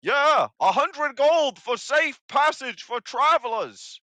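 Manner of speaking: greedy goblin toll demand, high and loud; high, loud, slow hobgoblin. Acted. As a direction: drag out the price like a sly hobgoblin. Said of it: "You see him kind of look around".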